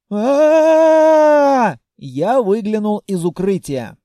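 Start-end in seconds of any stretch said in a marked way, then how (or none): 0.1-1.8 high, loud drawn-out scream; a long terrified dragon shriek; dragon's scream. A narrator's reading. Dragoness shrieking in fear, loud high scream.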